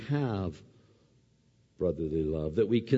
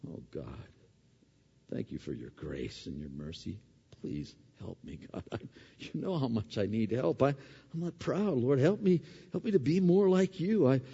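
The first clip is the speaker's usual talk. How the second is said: humble prayer; 3 semitones higher than usual. Pretend. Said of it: "I come out going".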